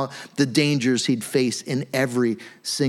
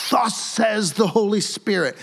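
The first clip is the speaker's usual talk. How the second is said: a lightly hammed-up prophet's proclamation, higher; dramatic prophet; 4 semitones higher than usual. Preacher voicing Agabus's prophecy, lightly hammed-up and dramatic. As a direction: announce it like a mock oracle. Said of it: "this is so dramatic".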